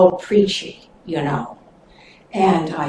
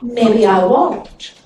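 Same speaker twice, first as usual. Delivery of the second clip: pitiful; slower than usual. Acted. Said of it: "sort of pitiful-like".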